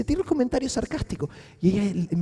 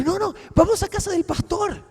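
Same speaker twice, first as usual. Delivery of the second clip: put-on higher, sing-song talk to a little kid; childlike voice; 9 semitones higher than usual. Coaxing the girl to come home, higher childlike voice. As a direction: coax her like a small child. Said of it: "como una niña pequeña".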